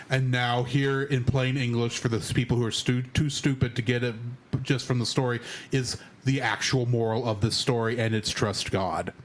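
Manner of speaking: low, heavy-handed moral delivery; mock movie preaching. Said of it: "where it's like".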